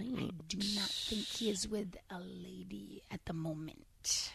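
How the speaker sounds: slow unvoiced gossip whisper. Real, not acted.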